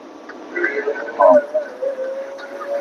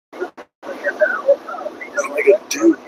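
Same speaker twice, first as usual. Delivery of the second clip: very high, drawn-out wail; hammed-up high wail of despair; wailing mock despair; 4 dB quieter, much slower than usual. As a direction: stretch it into a slow whining cry. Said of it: "It's like".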